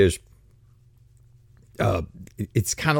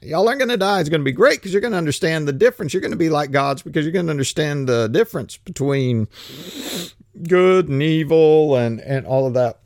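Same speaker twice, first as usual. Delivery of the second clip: serpent's spiel; 2 semitones higher than usual. Retold or imitated. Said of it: "he's giving this spiel about".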